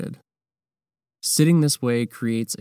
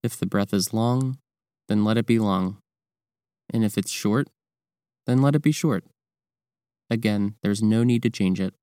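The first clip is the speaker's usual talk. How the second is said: calm, measured meditation guidance with long pauses; guided meditation; 3 dB louder than usual. Real, not acted. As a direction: guide the listener through breathing, leaving space between phrases. Leads the breathing practice.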